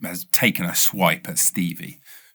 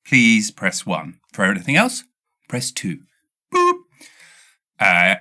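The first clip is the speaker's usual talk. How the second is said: phone menu voice. Retold or imitated. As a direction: read it like a recorded line. Imitating automated phone menu.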